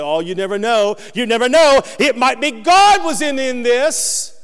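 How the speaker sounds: wife's reassurance. Retold or imitated. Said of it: "She said".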